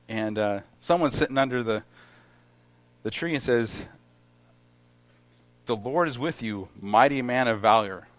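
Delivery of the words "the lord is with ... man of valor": a hint of sarcasm in the greeting; sarcastic. Shown as a demonstration. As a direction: read it like a sneering compliment. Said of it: "And it almost sounds sarcastic".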